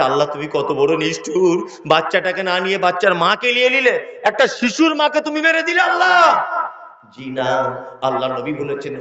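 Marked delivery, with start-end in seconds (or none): 0.0-6.4 imitated tearful lament. Village women reproaching Allah over a dead mother, imitated wailing lament. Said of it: "কাঁদতে কাঁদতে বলছে".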